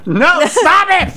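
high, loud, stretched-out protest; stop it. Real, not acted. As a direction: cry out to stop the joke, slowly. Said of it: "host cuts off the accent".

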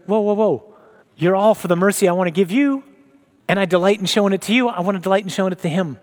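a hint of the Lord hushing an upset child; gentle Lord. Lord voiced gently correcting.

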